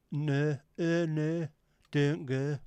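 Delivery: loud, mangled Hull vowels; Hull accent. Acted. Mocking how badly Hull mangles vowels, exaggerated Hull accent. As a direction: imitate a Hull accent, O squashed to "er". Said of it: "as bad as the Hull accents".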